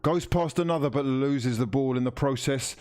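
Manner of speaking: TV match commentator voice; live commentary. Acted. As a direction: call the match like a broadcaster. Commentary continues.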